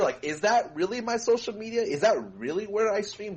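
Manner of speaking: high-pitched, questioning imitation of doubt; mock unsure. Co-guest teasing guest over his plug, mock unsure. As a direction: mimic someone doubting their own handles. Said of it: "like, so unsure".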